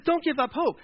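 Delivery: high-pitched eager urging; impassioned plea. Acted. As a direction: act out a fired-up young hero. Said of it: "David's got passion".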